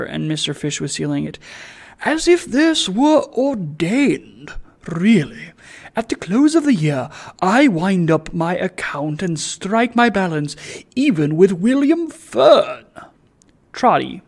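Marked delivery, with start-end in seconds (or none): 2.0-12.8 lofty gentleman pleased with himself; pompous gentleman. Acted. Sir Joseph speaks.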